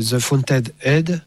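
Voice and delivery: slow, self-consciously careful English title; English accent. Real, not acted. Lecturer self-mockingly says the English title in an English accent. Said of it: "avec mon super accent".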